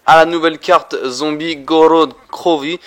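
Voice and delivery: put-on slow, heavy Russian accent in French. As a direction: roll it out like a Russian. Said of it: "j'espère que j'ai bien fait l'accent russe".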